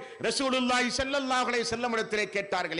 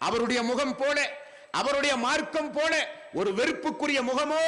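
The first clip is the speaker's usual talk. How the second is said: impassioned preaching. Real, not acted. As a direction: preach it to the congregation, phrase by phrase. Preaches to a congregation throughout. (உணர்ச்சிமிக்க மார்க்கச் சொற்பொழிவு)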